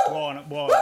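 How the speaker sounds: high sharp call to a dog; scolding the dog. Acted. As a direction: tell the dog to behave.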